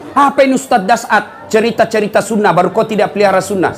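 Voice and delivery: mock Facebook critic. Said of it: "saya dimaki-maki di Facebook".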